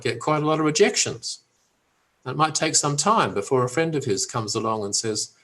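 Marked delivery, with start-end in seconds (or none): none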